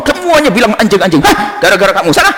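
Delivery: high, exasperated outburst; indignant acted scolding; acted anger. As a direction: lash out like a fed-up owner. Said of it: "Akhirnya dia marah sama orang".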